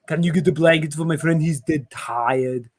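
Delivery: mock Austrian one-liner, dragging at the end; lightly hammed Austrian action hero; bad German accent. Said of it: "lots of really bad German accents".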